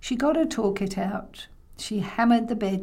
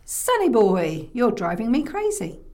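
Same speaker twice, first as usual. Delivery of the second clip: stretched-out, louder call on the name; exasperated grandma; 4 dB louder than usual. Acted. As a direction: scold the boy, fed up. Grandma scolds the boy.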